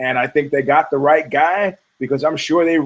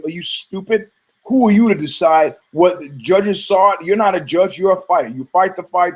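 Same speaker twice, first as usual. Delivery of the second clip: slightly higher, insistent telling-off; scolding coach; 4 semitones higher than usual. Retold or imitated. Coach telling his fighter who decides, retold scolding. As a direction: lay down the law, lightly acted.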